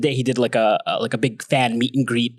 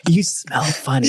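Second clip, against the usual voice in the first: laughing; slower than usual. Real, not acted. Teasing banter with friend.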